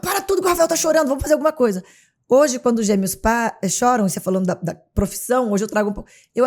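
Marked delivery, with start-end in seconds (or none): 0.0-1.8 higher and fast, mock alarm; mock panic. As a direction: rush out a playful family panic. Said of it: "parecia guerra". (pânico fingido, agudo e rápido)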